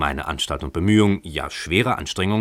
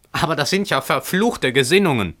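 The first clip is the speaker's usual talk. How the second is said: higher, indignant outburst; outraged shout; 7 semitones higher than usual. A narrator's reading. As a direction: shout at the tenant upstairs. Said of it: "schrie Emmerich".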